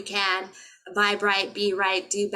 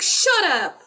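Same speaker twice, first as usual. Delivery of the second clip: high, loud "Shut up!" through a laugh; laughing mock shout; 9 semitones higher, 8 dB louder than usual. Recalling brushing off friends, laughing and yelling. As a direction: yell it while cracking up. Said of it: "I'm like".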